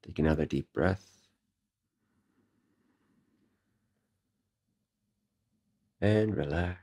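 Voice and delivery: calm, unhurried breathing guidance with long pauses; guided meditation. Real, not acted. Meditation teacher leading listeners through breathing, guided meditation. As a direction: ease them gently through each breath, slightly soft.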